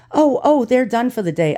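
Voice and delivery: high flustered imitation of the postmaster; postmaster's reply. Postmaster brushing off his call, in a high flustered voice. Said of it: "And she says".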